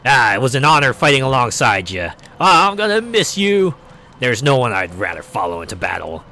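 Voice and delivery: mock heartfelt farewell; hammed-up sincere goodbye; heartfelt speech. Crew members bidding farewell, mock heartfelt.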